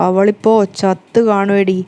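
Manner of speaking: slow, sneering inner voice; mocking thought. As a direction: savour it with scorn, slowly. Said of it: "ഒരു പരിഹാസ ചിരി". (പതുക്കെ, പരിഹാസത്തോടെ)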